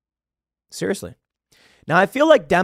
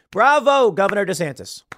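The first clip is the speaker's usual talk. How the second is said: cheering bravo; 4 semitones higher than usual. Real, not acted. Cheering the governor's bill.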